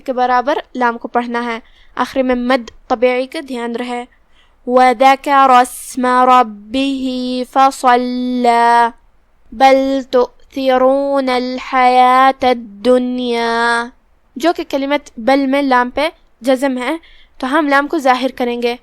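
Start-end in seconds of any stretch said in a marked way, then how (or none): 4.7-8.9 slow measured tajweed chant; slow melodic Quran recitation; Quranic recitation. Shown as a demonstration. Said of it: "teacher recites the whole verse". 9.5-13.8 slow measured tajweed chant; slow melodic Quran recitation; Quranic recitation. Shown as a demonstration. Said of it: "teacher recites the verse".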